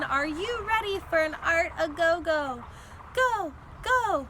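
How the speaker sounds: loud, bright crowd hype; hype announcer. A narrator's reading. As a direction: get the crowd going. Librarian hyping the crowd.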